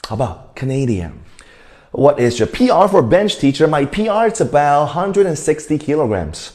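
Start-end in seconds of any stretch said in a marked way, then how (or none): 0.6-1.1 Canadian with the stress on NA; stress on second syllable. Shown as a demonstration. Teacher checking that students follow, Canadian with second-syllable stress. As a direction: punch "nay" in Canadian and let the ending drop. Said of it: "重音在第二个音节".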